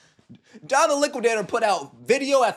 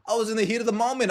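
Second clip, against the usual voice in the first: fast, higher mock excuse, tumbling out; quick mock plea, pitched up; rushed mock excuse; 4 semitones higher, much faster than usual. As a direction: hurry the fake excuse. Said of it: "spewing a whole bunch of lies and saying".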